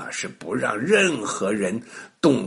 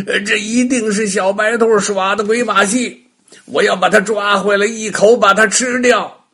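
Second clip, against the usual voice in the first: louder angry witch threat; furious witch; 7 semitones higher, 7 dB louder than usual. A narrator's reading. Witch swears to eat the rabbit, loud and angry. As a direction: spit out the threat. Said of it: "气得哇哇大叫".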